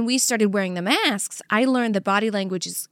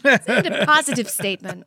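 laughing. Real, not acted. Laughs while speaking.

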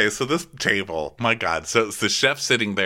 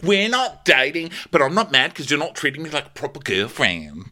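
put-on huffy girlfriend; 6 semitones higher than usual. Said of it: "she's like".

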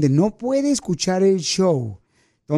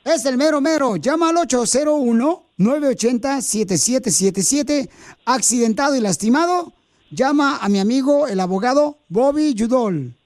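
ad read; 3 semitones higher than usual. Acted. Host recording the lawyer's commercial, upbeat. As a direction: sell the lawyer to the audience.

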